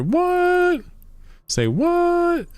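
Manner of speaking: squeaky high shocked what; shocked falsetto. Real, not acted. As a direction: squeal it in disbelief. Shocked by booster prices.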